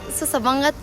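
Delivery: usual speaking voice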